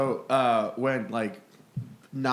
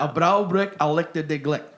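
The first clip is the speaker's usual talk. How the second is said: mock Scottish phrase; 2 semitones higher, 5 dB louder than usual. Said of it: "My Scottish isn't terrible".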